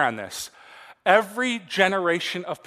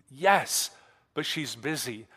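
whispering on the phone; 4 semitones lower, 5 dB quieter, slower than usual. Retold or imitated. Little boy whispering on phone.

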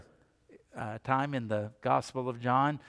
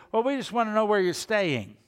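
higher, caught-off-guard nervous question; 6 semitones higher, 4 dB louder than usual. Retold or imitated. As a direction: blurt it out, flustered and unsure. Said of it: "just a tad nervous".

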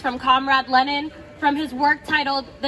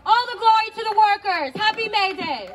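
higher, rousing rally cry; fiery revolutionary speech; 5 semitones higher than usual. Acted. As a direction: lift the final salute high.

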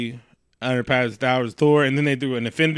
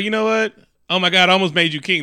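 raised-pitch, mildly mock anger; really mad; 4 semitones higher, 3 dB louder than usual. Odin scolding his son, mock mad. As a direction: build up a retold scolding. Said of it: "he got really mad".

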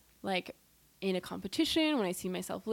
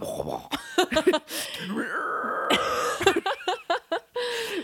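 mock metal noise; 10 semitones higher, 5 dB louder than usual. Mimes blasting metal over coffee.

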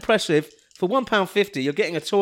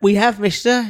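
put-on cheeky scrappy street kid. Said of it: "the little urchin boy from the last sketch".

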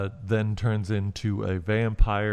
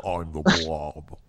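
Blob voice; 5 semitones lower, slower than usual. Retold or imitated. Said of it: "It's the".

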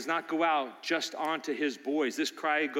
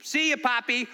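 put-on higher, cheeky kid's goodbye; tossed-off kid voice, louder; young boy; 6 semitones higher, 4 dB louder than usual. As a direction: grandson shouting goodbye to his grandpa, childlike. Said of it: "The young boy goes".

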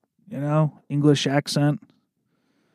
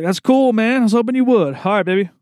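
imitating a laid-back dude, pitched much higher; chill dude; 7 semitones higher, faster than usual. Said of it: "He's like".

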